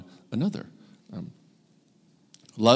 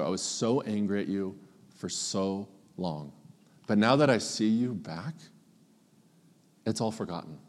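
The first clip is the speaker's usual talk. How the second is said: tender welcome. Retold or imitated. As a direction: hold him close and speak gently. Older brother embracing returned brother.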